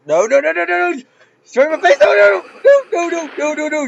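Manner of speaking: high, loud string of panicked cries; real panicked yelling. Real, not acted. Player with a giant in their face, panicked yelling. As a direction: yell in alarm as it comes at you.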